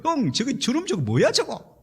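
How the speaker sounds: high, soft-volume imitation of indignation; 동생의 벌컥 화냄. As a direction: mimic an angry brother complaining to you. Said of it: "같이 화를 막 벌컥 내는 거예요". (화난 동생을 흉내 내는 높은 목소리)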